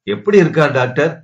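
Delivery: usual speaking voice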